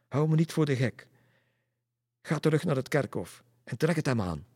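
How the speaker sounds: high, loud telling-off; scolding command. A narrator's reading. Pastor sends women to the cemetery, scolding command. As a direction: order them off indignantly.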